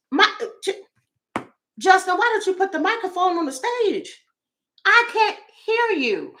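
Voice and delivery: high, strained fan calling from the back. Retold or imitated. A fan at the back yelling at Justin, high and strained. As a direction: shout up to the stage from the cheap seats.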